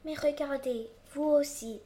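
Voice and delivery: high, eager little tree; exclaiming. Acted. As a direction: point it out in wonder. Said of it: "s'exclame le petit sapin".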